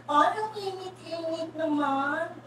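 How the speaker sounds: slow, whiny mock complaint about the heat; fussy heat complaint. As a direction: drag it out like a pampered lady.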